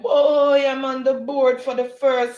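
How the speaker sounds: high, loud excited cheer. Retold or imitated. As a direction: read it out as a thrilled shout.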